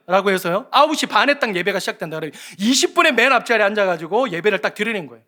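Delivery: normal talking voice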